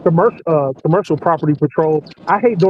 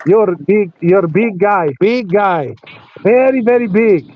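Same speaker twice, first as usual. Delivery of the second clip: Russian guy; slower than usual. Retold or imitated. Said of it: "He was like".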